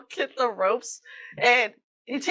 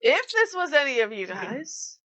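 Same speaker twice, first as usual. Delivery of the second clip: pleading captain; 5 semitones higher than usual. Acted. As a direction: beg them never to do it again.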